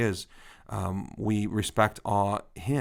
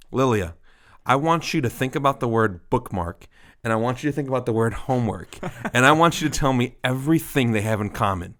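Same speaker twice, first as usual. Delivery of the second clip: a touch of the lecturing parent, higher pitch; retold lecture; 4 semitones higher, 5 dB louder than usual. Dad lecturing daughter about two words, mock stern. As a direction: imitate a dad spelling out a pointed lesson. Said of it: "I went into this lecture".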